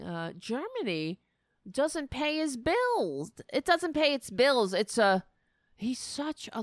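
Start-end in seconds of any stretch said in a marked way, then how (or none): 1.7-3.3 mocking Trump. 3.5-4.7 mocking Trump.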